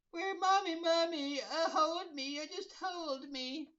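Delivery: high, loud blubbering; hammed-up sobbing plea; mock baby crying. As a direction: beg to be held like a crybaby. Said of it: "Batman's crying like a little baby".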